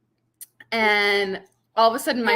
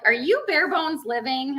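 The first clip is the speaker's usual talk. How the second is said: lightly imitated old lady, higher pitch; a hint of the elderly neighbor, pitched up; 6 semitones higher than usual. Old neighbor asks the vlogger who she is, lightly imitated. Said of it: "she's an old lady with a cane".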